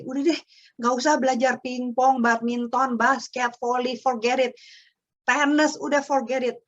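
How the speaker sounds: exasperated nagging. Retold or imitated. Mother nagging her clumsy child, fed up and exasperated. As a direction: throw up your hands at the child. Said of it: "sampai gini".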